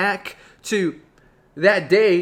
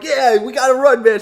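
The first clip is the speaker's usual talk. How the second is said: loud, raised urgent cry; mock panic; 5 semitones higher, 6 dB louder than usual. Boy tells his friend to run from the knife, panicked. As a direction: urge a friend to flee, play-panicked. Both boys flee the knife.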